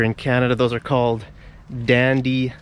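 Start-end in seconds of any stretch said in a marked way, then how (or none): 1.8-2.5 said slowly as two words. Shown as a demonstration. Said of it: "why I said it so slowly".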